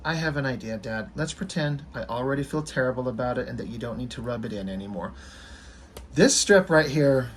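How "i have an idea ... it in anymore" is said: soft, sinking, dejected plea; a kid who already feels awful; Calvin, downcast, softly asking his dad to stop; sad. Acted.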